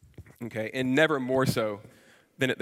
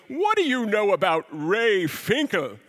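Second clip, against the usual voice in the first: higher, gruff threat behind a shotgun; menacing old dad; 5 semitones higher than usual. Retold or imitated. Finkle's dad questioning Ace at gunpoint: hostile old man. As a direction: growl it with the gun raised. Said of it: "and then he goes".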